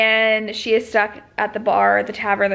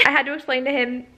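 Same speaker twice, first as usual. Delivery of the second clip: normal talking voice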